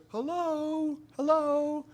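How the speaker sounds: high, drawn-out calling voice; sing-out hail in a high put-on voice; imitated distant caller. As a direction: call down from an embankment. Voice calling from top of embankment.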